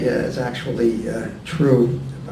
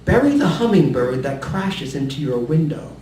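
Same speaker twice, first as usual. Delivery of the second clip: measured poetry recital with deliberate line breaks; poem reading; 2 semitones higher than usual. Acted. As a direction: read each line as a separate instruction, pausing between. Reads a poem aloud.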